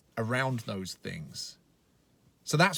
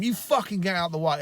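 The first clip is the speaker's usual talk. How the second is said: imitating a raised, angry swear; a touch of remembered road rage, louder; retold swearing; 6 semitones higher, 5 dB louder than usual. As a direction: snap it at him as if still in the car. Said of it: "Like, swearing at him".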